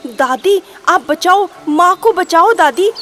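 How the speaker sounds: acted children's cries for rescue; children crying out. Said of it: "बस यही चिल्ला रहे थे".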